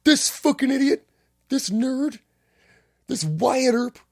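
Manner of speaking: high, loud, furious cop rant; angry cop yelling. Retold or imitated. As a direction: yell it like an outraged police captain. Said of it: "I remember the quote was".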